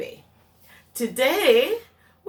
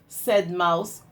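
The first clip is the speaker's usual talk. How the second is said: lively storybook read-aloud; reading to children. A narrator's reading. Teacher reading Duck on a Bike to her class, lively storytime voice.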